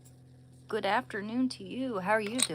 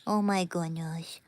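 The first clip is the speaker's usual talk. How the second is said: whispered jowly voice. Acted. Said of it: "That's how he would talk".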